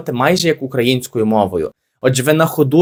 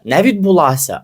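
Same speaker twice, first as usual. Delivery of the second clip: Не відбулася said higher to set it against the next word; contrasting two verb forms; contrast stress; 4 semitones higher than usual. Shown as a demonstration. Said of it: "а відбувалася".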